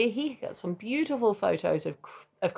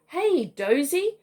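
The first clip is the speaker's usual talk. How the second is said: slow, higher call up to a tree; 7 semitones higher, 4 dB louder, slower than usual. A narrator's reading. Emu father calling up to a koala in a tree, drawn out. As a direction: call up slowly to the sleepy koala, a touch higher. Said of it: "Crikey called up".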